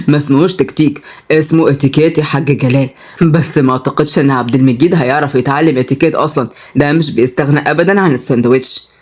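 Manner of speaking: low, easy male-character voice; amused Oday figure. Acted. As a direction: correct him teasingly in a low voice. Voices Oday correcting and teasing. (بصوت راجل واطي وهزار خفيف)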